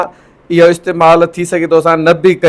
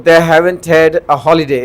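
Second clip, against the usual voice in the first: slow dictation; much slower than usual. Shown as a demonstration. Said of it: "جيئن ڏسو".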